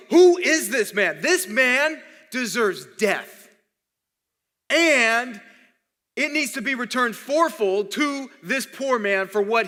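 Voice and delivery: retelling a king's outrage, leaning on each word; slowed, emphatic mock fury; worked up outrage. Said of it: "David starts freaking out. He gets worked up".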